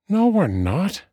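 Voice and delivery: high-pitched contradicting voice; literal-minded friend. A narrator's reading. Friend correcting the dying dwarf, high matter-of-fact voice.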